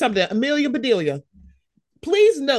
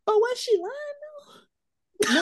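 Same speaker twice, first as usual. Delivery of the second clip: sassy question; 12 semitones higher, faster than usual. Retold or imitated. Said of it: "I'm like".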